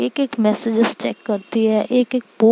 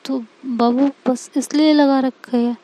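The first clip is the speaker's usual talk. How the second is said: halting, tripping over the words; flustered girlfriend stammering out an excuse; nervous stammering. Acted. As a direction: stall and stumble like you're hiding something. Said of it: "तो तुम हकला क्यों रही हो?".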